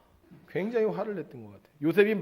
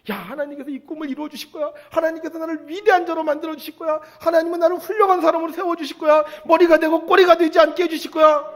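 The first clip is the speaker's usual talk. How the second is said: high, fervent declaration building to loud shouting; bursting with faith; 12 semitones higher, 8 dB louder than usual. Retold or imitated. Joseph tells himself God will fulfil his dream, bursting with faith. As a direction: let conviction swell line by line, imitating a believer. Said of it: "이 믿음이 막 가슴에 차오르니까".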